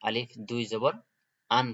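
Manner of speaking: আলিফ দুই জবর rising, then আন with the n clear; teacher spells it out, landing on আন; spelling drill tanween. Shown as a demonstration. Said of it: "এখানে আমরা পড়ব".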